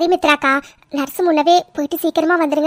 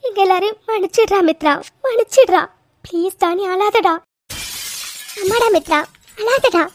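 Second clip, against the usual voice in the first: emotional, raised-pitch plea for forgiveness; pleading apology; 3 semitones higher than usual. Acted. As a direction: beg her to forgive and stop crying. Family begs forgiveness of crying Mithra. (கெஞ்சி மன்னிப்பு கேட்கும் குரல்)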